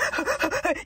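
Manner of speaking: quick panting gasps, acted out; imitated breathless gasping. Man breathless around his love, mimicked gasping. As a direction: mimic someone unable to catch a breath. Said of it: "he can never breathe around her".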